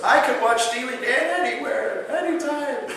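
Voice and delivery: high, insistent outburst; imitated eagerness. Patient turning down the concert, high and insistent. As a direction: play an excited patient pleading his case.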